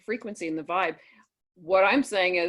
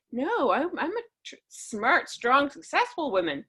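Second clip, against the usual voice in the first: higher, mildly indignant retort; indignant protest; 7 semitones higher than usual. Retold or imitated. Retelling her reply to a mocking man, lightly indignant. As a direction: push back with a lifted, half-mock pride.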